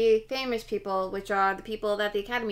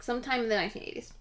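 talking while chewing; words round a bite of food; mouth full; 5 dB quieter, faster than usual. Real, not acted. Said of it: "Sorry, I'm chewing on this".

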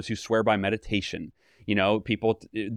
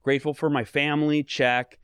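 lightly acted box-ticking; mildly perfunctory, ticking items off; intellectual gratitude; 2 semitones higher than usual. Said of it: "I call it intellectual gratitude".

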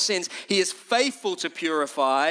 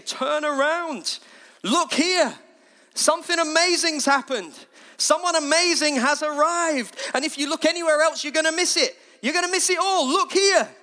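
high, urgent shout to a crowd; raised, pressing preacher's cry; 9 semitones higher, 4 dB louder than usual. Retold or imitated. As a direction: call out loudly to turn their heads. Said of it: "he's shouting exactly the same thing".

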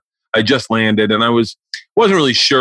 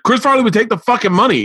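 mock dad outburst; 12 semitones higher, faster than usual. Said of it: "my dad's like".

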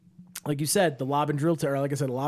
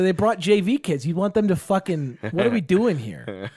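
raised, higher griping at the other team; exasperated coach rant; 4 semitones higher than usual. Retold or imitated. Coach complaining to his players about the JV kids, exasperated. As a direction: vent like a fed-up coach on the sideline.

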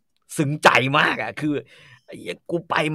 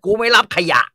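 louder, higher scornful snap at a patient; angry refusal; 7 semitones higher, 8 dB louder than usual. Retold or imitated. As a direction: bark it at the patient like a proud doctor. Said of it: "ถ้าเป็นหมอฝ่ายเทพ จะบอกว่า". (หมอตวาดไล่คนไข้ เสียงดังและสูงขึ้น)

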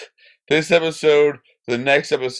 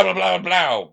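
stabbing sound effect; 6 semitones higher, slower than usual. Retold or imitated. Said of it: "That noise exactly".

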